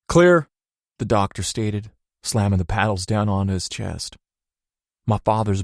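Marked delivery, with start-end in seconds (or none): 0.1-0.5 loud sharp command; doctor's call. A narrator's reading. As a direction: call clear before shocking. Doctor with paddles.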